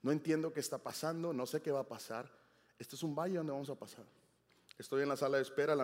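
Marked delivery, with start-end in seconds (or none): 0.0-4.0 quiet retold prayer. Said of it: "Y oramos y dije".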